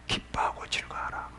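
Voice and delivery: hushed, intimate answer; whispered scripture. Real, not acted. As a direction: drop right down to a whisper.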